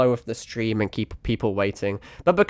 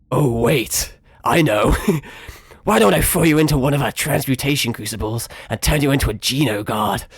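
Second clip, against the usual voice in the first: grisly villain. Shown as a demonstration. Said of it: "a really grisly voice".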